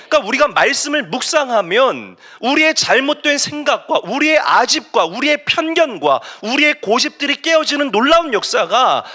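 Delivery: high, driving sermon voice; impassioned preaching. Real, not acted. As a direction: drive each phrase home to the congregation. Preaches at full force. (높고 힘차게 몰아치는 설교)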